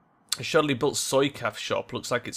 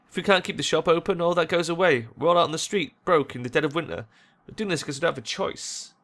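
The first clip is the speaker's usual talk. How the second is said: earnest, slightly raised plea; pleading shop worker; 4 semitones higher than usual. Acted. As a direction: plead as someone with no choice.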